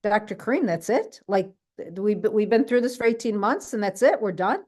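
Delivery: retelling the husband's stunned questions; lightly voiced doubting husband; incredulous husband. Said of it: "he's like".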